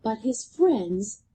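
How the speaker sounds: put-on lively read-aloud for children; bouncy storybook narration; story reading. A narrator's reading. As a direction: read it like a picture book to a class. Teacher reads picture book aloud.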